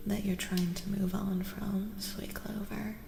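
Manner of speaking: gentle, hushed near-whisper; breathy, intimate tarot-reading voice. Real, not acted.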